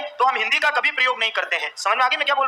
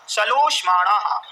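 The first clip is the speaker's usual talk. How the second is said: slow dictation; slower than usual. Shown as a demonstration. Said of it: "एक बार लिख दीजिएगा".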